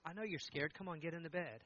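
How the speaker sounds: soft, understanding reassurance; reassuring father. Retold or imitated. Dad to his scared eight-year-old, soft reassurance. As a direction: quietly comfort a frightened child.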